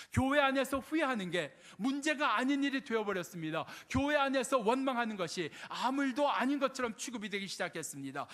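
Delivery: driving sermon delivery, pressing each question; forceful preaching. Acted. Preacher challenging the church about complaining and regret, forceful preaching. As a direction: preach it in insistent, mounting waves.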